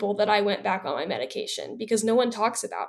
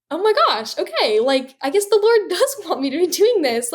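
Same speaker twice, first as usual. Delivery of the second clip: excited disbelief; 7 semitones higher, 4 dB louder than usual. Retold or imitated. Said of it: "and I was like".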